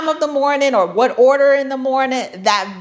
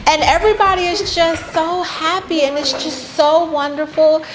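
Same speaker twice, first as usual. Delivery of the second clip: mock happy; 5 semitones higher than usual. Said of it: "like, lying".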